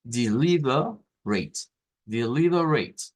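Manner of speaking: teacher marking the stressed syllable; stressed syllable demo. Shown as a demonstration. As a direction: push the LI in Deliberate. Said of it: "esa es la sílaba tónica".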